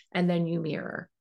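normal talking voice

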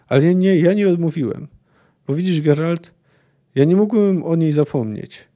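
measured audiobook narration of a prisoner's confession; story reading. A narrator's reading. Podcaster reads the book excerpt to listeners, calm narration. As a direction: read the passage like an audiobook.

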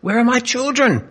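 father pleading into darkness. A narrator's reading. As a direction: beg for your children with a cracking high voice. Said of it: "he pleaded".

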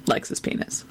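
breathy whispered catchphrase; whispering. Pretend. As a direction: whisper it like a secret.

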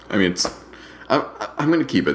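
talking through hiccups; hiccup-broken words. Real, not acted. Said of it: "Sorry, I have the hiccups".

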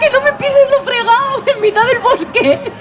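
high voice through laughter; laughing. Real, not acted. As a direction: say it while laughing. Repeats the line laughing.

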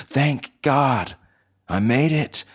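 high, loud cry of relief; urgent relief. Acted. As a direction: exclaim it as a desperate escapee. Escapee reaches the door.

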